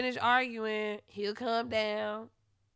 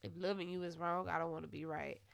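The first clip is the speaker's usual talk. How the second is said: mock lovesick ex; 5 semitones lower, 9 dB quieter, faster than usual. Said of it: "Tell us".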